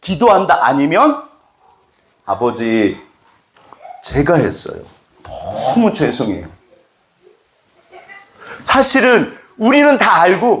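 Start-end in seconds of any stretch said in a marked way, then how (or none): 2.3-6.5 subdued apology, slowing at the end; boy's contrite confession. Acted. Young George confessing to his father, subdued contrite apology. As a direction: own up to father, drawing out the sorry.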